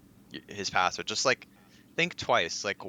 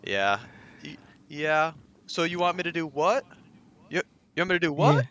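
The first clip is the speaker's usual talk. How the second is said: high, louder mock bewilderment; confused scam victim; 9 semitones higher, 5 dB louder than usual. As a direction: play a baffled caller wasting the scammer's time.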